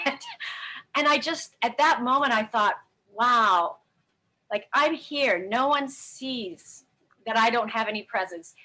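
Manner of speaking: real tearful telling, pitch lifting and wavering; holding back tears. Real, not acted. Woman recalling her giftless Christmas morning, trying not to cry. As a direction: keep going through the urge to cry. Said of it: "I'm trying not to cry, just like now".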